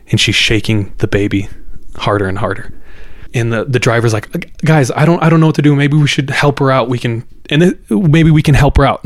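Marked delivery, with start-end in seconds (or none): 4.6-9.0 higher-pitched, hesitant retold dithering; wavering, worried appeal to friends; unsure, anxious. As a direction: imitate a rattled driver unsure what to do. Driver torn, retold under pressure.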